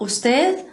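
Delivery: "usted" ending with the tongue between the teeth, like th. Shown as a demonstration. Teacher showing students the Spanish th ending of "usted". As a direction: end "usted" with a th sound. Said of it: "com a língua entre os dentes no final".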